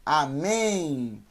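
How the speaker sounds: Amém ends in n, not m; final N. Shown as a demonstration. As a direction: close amém on an n sound. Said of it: "é com N".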